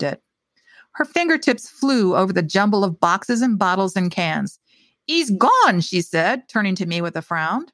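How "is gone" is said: put-on high, dismayed Slavic-accented voice. A narrator's reading. Old baker finds the bottle missing, Slavic accent. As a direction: announce the loss in a Slavic accent. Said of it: "The voice was heavily accented".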